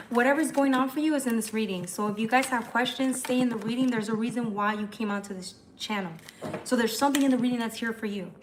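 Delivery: brisk, slightly testy delivery; mildly snippy, hurried insistence; a bit bitchy. Real, not acted. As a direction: rattle it off with some attitude. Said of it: "I'm getting all bitchy".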